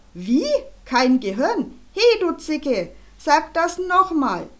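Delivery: hoch und laut, empört gebrüllt; brüll die Beleidigung zurück; wütendes Schreien. Acted. Schlägefred schreit Charlotte wütend an. (wütender Schlägefred brüllt Charlotte an)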